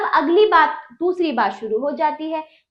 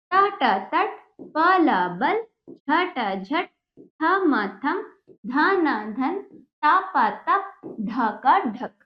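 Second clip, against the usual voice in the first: slow, drawn-out syllables, then the joined word; sing-song sound-it-out chant for pupils; reading drill; much slower than usual. Shown as a demonstration. (धीमे, खींचकर पढ़ाने का लहजा)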